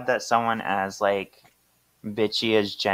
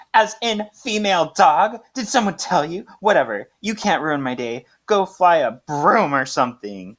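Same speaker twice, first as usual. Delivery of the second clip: higher, snotty put-down; snippy mean girl; 5 semitones higher than usual. Retold or imitated. Jenny snapping at Delia, a higher snotty put-down. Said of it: "And Jenny's like".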